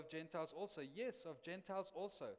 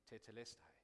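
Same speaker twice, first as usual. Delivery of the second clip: soft, hushed Tetelestai, much softer; whispered; 4 semitones lower, 7 dB quieter than usual. Retold or imitated. Policeman paying your fine and telling you Tetelestai, hushed whisper. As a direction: breathe the word out gently like a secret. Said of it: "whispers it".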